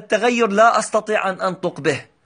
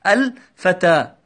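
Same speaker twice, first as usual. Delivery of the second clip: "الفتى" drawn out slowly, every sound clear; slow clear example word; 4 semitones lower, much slower than usual. Shown as a demonstration. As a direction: say "الفتى" slowly so the class hears it. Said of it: "ووضعنا مكانها كلمة". (نطق "الفتى" ببطء ووضوح)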